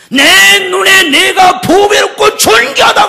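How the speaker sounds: high, slow, shouted proclamation; proclaiming scripture. Acted. Pastor quoting Isaiah, loud and slow. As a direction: declare the verse like God's own voice. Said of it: "이사야 선생님 뭐라고 했습니까".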